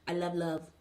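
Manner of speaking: lightly voiced mermaid, a hint of a dreamy sing-song; imitating the mermaid softly; mock mermaid sweetly cooing. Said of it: "she talked like this".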